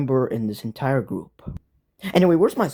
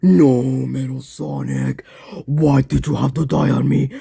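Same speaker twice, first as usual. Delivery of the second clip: mock grief. Grieving a dead robot.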